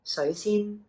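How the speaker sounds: sui rising, xin high; tone demo. Shown as a demonstration. Teacher repeating the tea name, careful. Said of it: "your high tone xin".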